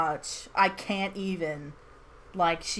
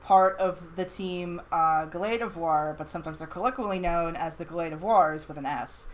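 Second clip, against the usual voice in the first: reciting facts; 2 semitones lower than usual. Retold or imitated. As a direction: rattle it off like a memorized encyclopedia entry. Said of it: "she said something like this".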